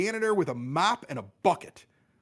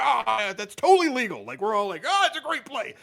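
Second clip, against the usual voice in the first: mock approval; 8 semitones higher, 4 dB louder than usual. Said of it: "I'm like".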